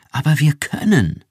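laut und hoch, nachdrücklich; beharrlich. Acted. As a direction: trotzig darauf bestehen. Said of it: "beharrte Iran". (Iran beharrt laut gegenüber Rick)

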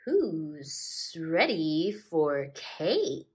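very slow, drawn-out snake voice; inviting snake. Acted. Snake inviting guests to cake, slow drawn-out voice. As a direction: stretch it out slyly. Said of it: "invited the snake".

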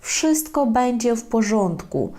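slowed model phrase for repeating; slow, clear teacher repeat. Shown as a demonstration. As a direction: say "Wszystko będzie w porządku" slowly and clearly. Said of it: "можна його заспокоїти".

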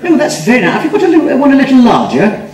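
a touch of a polite Yorkshire woman; lightly voiced woman. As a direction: play the customer pushing for a bigger bird. Woman customer voiced in story.

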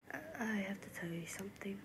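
quiet, halting lead-in to a confession; soft and reluctant; hesitant confiding. Acted. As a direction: speak softly, unsure how to begin. Hesitant confession in acted scene.

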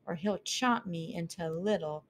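high, lively little mouse voice; a curious young mouse asking; curious mouse girl. Acted. Mouse thinks anxiously.

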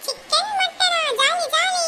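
high excited cheer; overjoyed. Acted. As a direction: squeal it with delight. Kid cheers chicken mutton.

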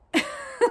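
short, high-pitched laugh; a quick high laugh before disagreeing. Real, not acted. Preacher dismissing a complacent idea of faith, short laugh.

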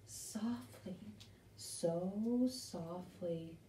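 gentle storybook softness; soft reading. A narrator's reading. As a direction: hush the words like drifting snow. Reading softly falling snow.

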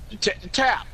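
high sarcastic welcome, then cackle; mock cheerful greeting. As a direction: greet him with exaggerated fake delight. Mocking sarcastic greeting of teammate.

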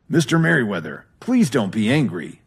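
nervous, begging plea; pleading. Acted. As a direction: beg him not to be angry. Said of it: "Jason pleaded".

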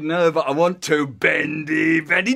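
put-on loud, defiant boy; wilful insisting. Boy arguing with his conscience, loudly wilful. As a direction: insist over the warning. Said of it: "And I said".

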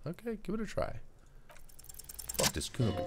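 put-on high, scrappy street-kid voice; a cocky kid mouthing off; Kuno's kid voice. Street kid to the cop, high and cocky.

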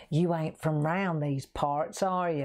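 slow, drawn-out mock local yokel; a lightly voiced sly village lady; imitating the old lady. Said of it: "this little old lady came to the door and she goes".

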